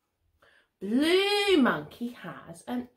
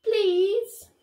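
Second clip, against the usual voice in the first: polite please; 6 semitones higher, 3 dB louder than usual. Acted. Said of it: "and says".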